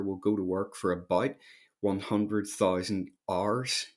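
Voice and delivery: hours in a Northern Irish accent, as "ars"; broad Northern Irish vowel on hours. Real, not acted. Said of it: "with my Northern Ireland accent".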